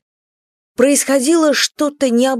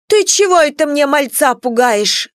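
scolding; 6 semitones higher than usual. Acted. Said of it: "напустилась на него Марфа".

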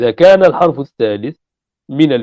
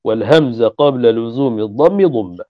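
slow, measured recitation of a grammar poem; slow didactic verse recitation; reciting verse. Shown as a demonstration. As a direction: chant the line like a memorized verse. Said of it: "هذا معنى قوله".

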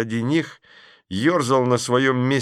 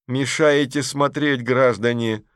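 slow, hollow voice through a rolled newspaper; sepulchral voice; 3 semitones higher, slower than usual. Acted. Vasechkin scolds the audience through a newspaper, sepulchral. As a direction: boom it like from a grave. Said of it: "замогильный голос".

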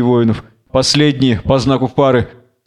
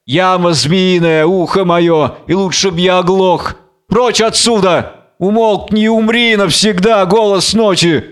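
raised, impassioned cursing from a tormented man; theatrical torment; tormented Samson; 5 semitones higher than usual. Acted. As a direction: cry out against the voice of night. Samson raves in the pit.

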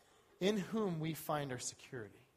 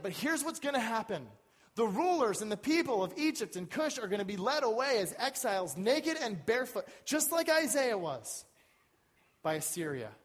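preaching; 6 semitones higher, 5 dB louder than usual. Real, not acted. Preaches at full force.

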